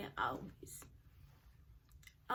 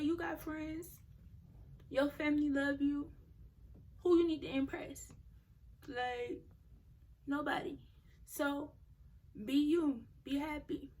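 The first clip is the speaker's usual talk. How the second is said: higher, emphatic self-encouragement; retold pep talk; 4 semitones higher, 3 dB louder than usual. Speaker telling herself who loves her, encouraging. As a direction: hype yourself up, pitched up.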